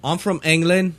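bad fake British accent; hammy British accent; terrible British accent. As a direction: put on a cheesy British accent. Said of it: "It's a terrible British accent".

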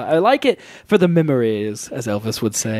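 lightly attempted singer impression; a half-hearted celebrity voice; a famous singer. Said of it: "So that was my Elvis impression".

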